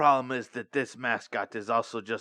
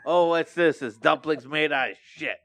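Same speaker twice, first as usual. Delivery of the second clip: excited game show voice; 2 semitones higher than usual. Pretend. Acting out blindfold game show.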